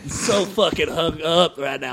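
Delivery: put-on sloppy drunk old baseball announcer; drunk Harry Carey voice. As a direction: play it blackout drunk, like Will Ferrell's Harry Carey. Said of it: "You sound like Will Ferrell doing Harry Carey".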